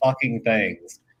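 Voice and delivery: ordinary talk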